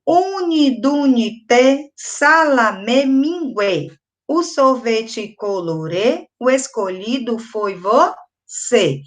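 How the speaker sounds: slow, measured chant of a counting rhyme; reading a rhyme aloud. Shown as a demonstration. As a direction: read it slowly for children to join in. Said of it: "Vou ler pra vocês agora".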